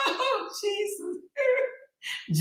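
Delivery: high laugh into slow oh Jesus. Real, not acted. Laughing at Lupa's AI photos. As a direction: laugh it out, then sigh oh Jesus.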